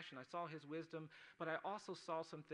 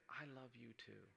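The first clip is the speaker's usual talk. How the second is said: retold whisper; 2 semitones lower, 8 dB quieter than usual. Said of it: "whispering in my ear".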